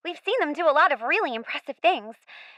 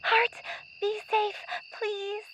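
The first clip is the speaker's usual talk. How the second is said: softer and softer prayer; a whispered hope for her friend; fading worried plea; 3 semitones higher, 9 dB quieter, slower than usual. Acted. Girl fears for Hart.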